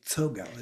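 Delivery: "Tsogao" begun with T and S fused; "Tsogao" with a single ts onset; combined TS. Shown as a demonstration. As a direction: blend T and S into one sound opening "Tsogao". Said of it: "that T s-, is combined together".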